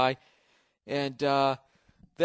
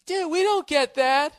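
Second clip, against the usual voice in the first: mock teen whine; 14 semitones higher, 6 dB louder, slower than usual. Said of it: "throwing their hands up like".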